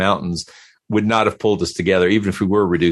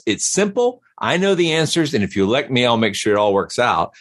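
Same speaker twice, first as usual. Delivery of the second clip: mock politician; 3 semitones higher than usual. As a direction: sell it like a smug candidate. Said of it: "somebody who says".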